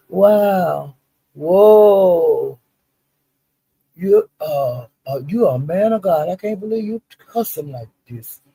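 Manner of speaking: imitating a mock-shocked, prim scold. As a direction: play it scandalized, like a churchy scold. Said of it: "she was talking like that".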